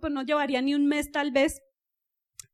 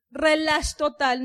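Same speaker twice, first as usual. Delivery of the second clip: slowed down; much slower than usual. Shown as a demonstration. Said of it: "anda a una velocidad así".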